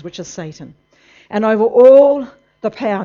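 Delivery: loud, emphatic sermon read of the verse; fiery preaching. Acted. Preacher stressing authority to the congregation, emphatic sermon. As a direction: drive each word home like a preacher.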